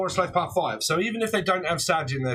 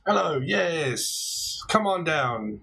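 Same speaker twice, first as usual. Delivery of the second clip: mock game-show host; much slower than usual. Game-show style call to winner.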